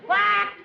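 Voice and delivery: single loud mallard quack. Acted. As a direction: blurt one quack like a mallard call. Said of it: "what kind of duck call would you like".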